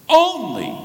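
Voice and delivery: only punched high and loud after a pause; stress on only. Shown as a demonstration. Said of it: "but it can be translated only".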